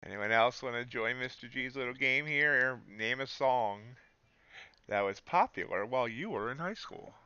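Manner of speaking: upbeat game show host voice. Acted. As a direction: announce it like a quiz host. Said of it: "said that like a game show host".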